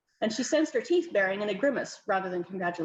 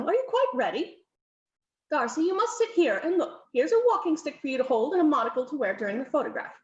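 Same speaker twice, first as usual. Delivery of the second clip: lightly voiced bossy countess, a bit higher; brisk hostess hurrying guests in, mildly voiced; fussy countess; 4 semitones higher than usual.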